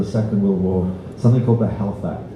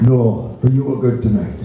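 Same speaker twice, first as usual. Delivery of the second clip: the same Welsh line again, a little more lilt; a hint of a Welsh old man, lightly voiced; Welsh accent; 2 semitones higher than usual. Welsh pensioner repeating his verdict to the singer, in a light Welsh accent. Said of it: "Now that is a Welsh accent".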